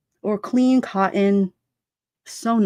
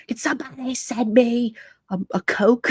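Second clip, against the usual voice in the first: aggressive demand; 3 semitones higher than usual. Retold or imitated. Streamer retells a woman asking for soda, mock aggressive. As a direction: imitate someone aggressively demanding. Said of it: "Oh my God, aggressive".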